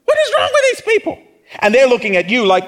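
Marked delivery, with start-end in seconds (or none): 0.0-1.2 high, fast, laughing disbelief; mock outrage. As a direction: squeal it out in mock shock. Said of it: "the people on the other side are like".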